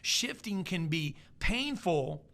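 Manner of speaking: slow and weighty, for emphasis; slow quoted line. Shown as a demonstration. Preacher slowly reading a quote to the congregation. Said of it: "let me give you a quote".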